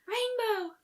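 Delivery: high, sharp gasping call of a name; gasped cry. A narrator's reading. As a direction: cry out her friend's name in alarm. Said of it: "Fluttershy gasped".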